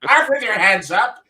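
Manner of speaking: a light hint of an old-time cop; lightly voiced thirties policeman; 1930s policeman. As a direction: bark it like a movie cop through the door. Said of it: "my nineteen thirties policeman".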